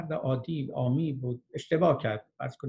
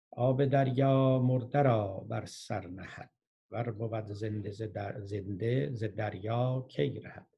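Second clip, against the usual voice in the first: poetry recitation; slower than usual. Acted. Teacher quoting Rumi on the sea, slow measured recitation. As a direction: begin firmly, then let the verse ease down.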